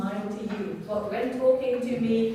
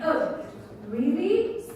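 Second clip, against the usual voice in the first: positive interest; 3 semitones higher, slower than usual. Shown as a demonstration. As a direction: ask it as welcome news. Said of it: "This is a positive thing".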